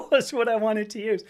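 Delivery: loud, breaking into real laughter; laughing. Real, not acted. Admitting a joke name for the chair, laughing.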